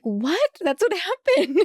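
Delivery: high-pitched mock protest; retold incredulous defence. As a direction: play the baffled friend defending themselves, high. Retold defence of blunt word.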